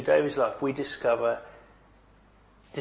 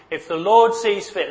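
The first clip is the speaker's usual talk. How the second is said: David's trusting words; 6 semitones higher, 4 dB louder than usual. Retold or imitated. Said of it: "David says".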